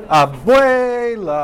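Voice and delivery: "Abuela" drawn out slowly, pitch rising high then falling; pitch peak demo. Shown as a demonstration. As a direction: stretch "Abuela" into a loud, high intonation peak. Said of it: "¿En qué palabra está el pico?".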